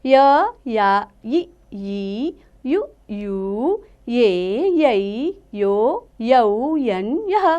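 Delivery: slow, drawn-out teacher's chant of each syllable; slow syllable recitation. Shown as a demonstration. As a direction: sound out every syllable slowly for children. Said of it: "अब हम पढ़ेंगे य की मात्राएं". (धीमे-धीमे अक्षरों का उच्चारण)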